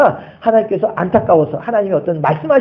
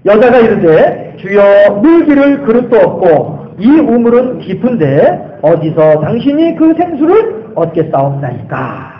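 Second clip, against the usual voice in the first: scripture reading; slower than usual. Acted.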